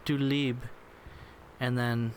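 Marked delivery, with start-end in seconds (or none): 0.1-0.6 playful fake-German mother; comic German accent; mock German accent. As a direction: speak as a German mom, lightly put on. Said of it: "This is how German people talk".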